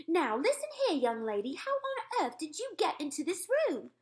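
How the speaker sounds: high, loud furious maid; ferocious shout. A narrator's reading. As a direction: bark at the girl like a fierce servant. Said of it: "the maid shouted ferociously".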